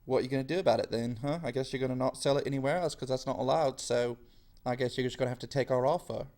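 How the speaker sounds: rattled off fast, a hint of a gloating colonial official; smug mock taunt. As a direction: taunt them quickly with mock smugness. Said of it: "the British are all like".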